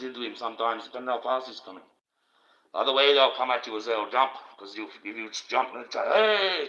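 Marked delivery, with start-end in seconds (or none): 6.1-6.7 mock scare shout.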